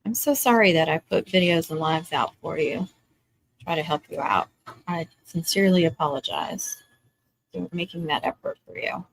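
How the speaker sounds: mock-sincere apology; sarcastic. Real, not acted. Host to griping viewers about free videos, sarcastic apology. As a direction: apologize with thick, understated sarcasm. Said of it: "the sarcasm is thick on this one".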